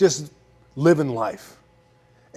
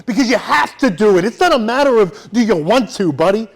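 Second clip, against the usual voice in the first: mock yell; 5 semitones higher than usual. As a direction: push him like a drill sergeant. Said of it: "And I'm screaming at him".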